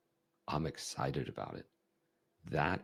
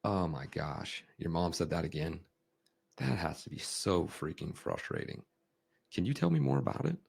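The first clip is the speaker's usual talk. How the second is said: mild, indignant exasperation on their behalf; matched anger. Shown as a demonstration. Coach matching a kid angry at mom, mildly exasperated. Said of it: "if they're super angry, I can match that".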